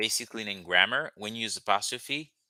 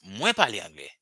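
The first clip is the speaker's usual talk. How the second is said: "Mwen" leaned on to set it apart; emphasis on mwen. Shown as a demonstration. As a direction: stress "Mwen" as if saying I do. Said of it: "lay emphasis on something".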